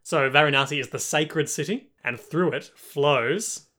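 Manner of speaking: lightly voiced documentary narrator, slowing on the last words; mock narrator exposition. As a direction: read it like a solemn nature documentary. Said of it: "the narrator's brilliant exposition".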